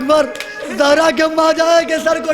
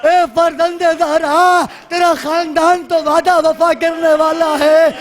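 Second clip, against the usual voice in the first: pleading prayer. Acted. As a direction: call out longingly to an awaited holy guest. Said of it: "یہ دعا مانگی رہی تھی". (تڑپتی ہوئی دعا)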